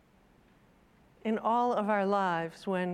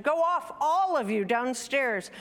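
raised, louder shooing-away order; exasperated mother; 4 semitones higher, 4 dB louder than usual. Acted. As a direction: send the children off, voice high then dropping. Mother shoos children away.

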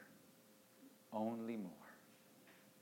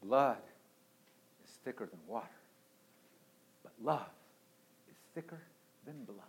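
hushed proverb; 3 semitones lower, 12 dB quieter, much faster than usual. Acted. Quiet opening quote of proverb.

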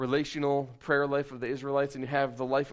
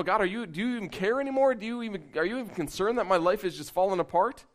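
higher-pitched acted complaint, pressing questions at God; mock lament to God; 6 semitones higher than usual. Psalmist questioning God as life falls apart, acted lament. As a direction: imitate someone crying out to God in protest. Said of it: "screaming at God and yelling at God and lamenting".

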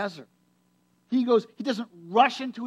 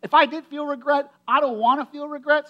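higher and louder, brushing regret off; defiant denial; 6 semitones higher, 6 dB louder than usual. Retold or imitated. Preacher voicing Moses shrugging off regret, loud and defiant. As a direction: Moses insisting he feels no regret. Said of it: "He's like".

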